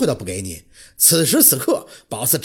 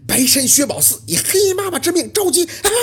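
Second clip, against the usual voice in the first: ritual incantation; 11 semitones higher than usual. Acted. Ritual summoning chant.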